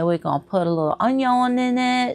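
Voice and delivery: put-on clumsy French Cajun accent. Imitating a Cajun cook on TV: bad French Cajun accent. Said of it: "That's a bad French Cajun accent".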